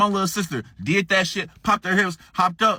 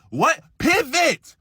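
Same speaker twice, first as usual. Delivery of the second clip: confused question; 10 semitones higher, 3 dB louder, much slower than usual. Retold or imitated. Sister confused by instruction.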